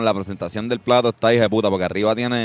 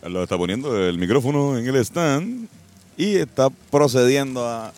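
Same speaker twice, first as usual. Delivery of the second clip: mock sportscaster calling the action; play-by-play narration. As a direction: narrate his bite like a live match. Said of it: "yo narro tu, tu travesía".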